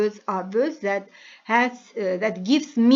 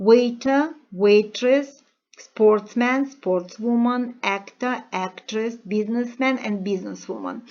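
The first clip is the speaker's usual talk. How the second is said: each job word read out clearly, one by one; reading a word list aloud; 3 dB louder than usual. Shown as a demonstration. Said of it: "First of all, let's read".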